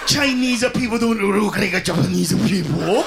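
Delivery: caricatured accent, lightly voiced; mock Asian accent. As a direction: put on a thick Japanese accent. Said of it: "You're acting like".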